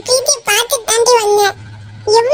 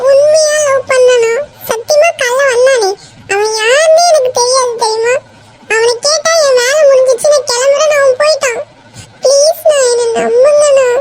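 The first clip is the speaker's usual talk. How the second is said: crying as you beg to be believed; desperate, tearful plea; tearful pleading. Acted. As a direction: plead through tears, drawing words out. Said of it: "அழாத".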